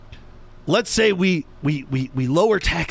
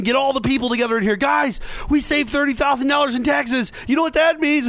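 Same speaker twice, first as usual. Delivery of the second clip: mock excited boss; 9 semitones higher than usual.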